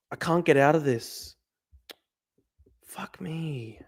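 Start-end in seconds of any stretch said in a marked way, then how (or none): 2.8-3.8 under-the-breath whisper; hushed frustrated whisper. Real, not acted. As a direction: whisper it to yourself, defeated. Stuck screen, muttering to himself.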